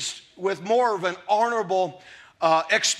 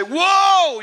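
firm whoa; 7 semitones higher, 6 dB louder than usual. Retold or imitated.

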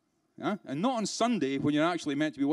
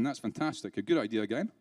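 dry, softened mock approval; British sarcasm; 4 semitones lower, 4 dB quieter than usual. Trainer mocking an unstaffed reception desk, sarcastic. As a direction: drop it low as deadpan fake praise. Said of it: "That's sarcasm. This is British sarcasm".

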